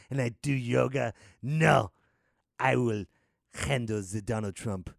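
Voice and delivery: lightly put-on French-Canadian accent; mock-proud French-accented statesman; Justin Trudeau impression. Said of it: "Justin Trudeau's like".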